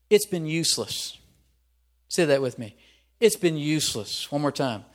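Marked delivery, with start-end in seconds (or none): 0.1-1.2 higher, louder frustrated complaint; disgruntled. Acted. David fed up after being insulted, disgruntled. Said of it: "disgruntled, frustrated, put out, impatient, insulted". 3.2-4.3 disgruntled. Acted. David fed up after being insulted, disgruntled. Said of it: "disgruntled, frustrated, put out, impatient, insulted".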